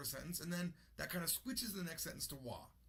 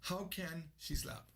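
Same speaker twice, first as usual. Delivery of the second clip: meme quote; slower than usual. Retold or imitated. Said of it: "Go look that up on YouTube".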